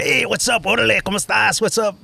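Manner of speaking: high-pitched put-on Latino comic accent; imitation Latino comedian accent; mimicked Latino accent. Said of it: "I started mimicking what I saw".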